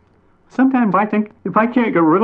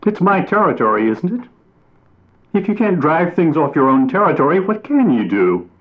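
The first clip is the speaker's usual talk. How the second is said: higher and louder, indignant; angry defence; 7 semitones higher, 4 dB louder than usual. A narrator's reading. Mockingbird hotly defending driving others off his territory. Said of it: "exclaimed angrily".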